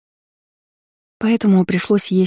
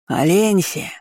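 yelling a name at the door; bawling man's voice; 3 semitones higher, slower than usual. A narrator's reading. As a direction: bellow it like a rude suitor. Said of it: "горланил мужской голос".

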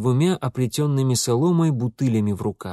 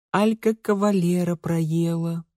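thoughtful smirk; 6 semitones higher than usual. A narrator's reading. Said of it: "задумчиво хмыкнула".

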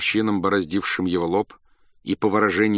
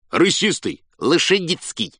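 higher, louder guesses; eager guesses; 9 semitones higher, 4 dB louder than usual. A narrator's reading. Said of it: "говорили ему".

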